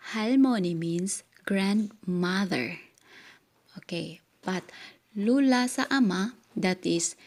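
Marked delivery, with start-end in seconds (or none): 5.2-6.4 "lula sa ama" called out high and loud; emphatic question. Shown as a demonstration. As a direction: stress it as a question to the class. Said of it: "teacher emphasizes question". (malakas at mataas na tanong)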